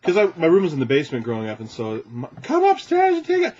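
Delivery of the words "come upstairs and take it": loud, high Scottish groundskeeper; Scottish accent. Retold or imitated. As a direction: bellow up the stairs in Scottish. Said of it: "I did a Scottish accent".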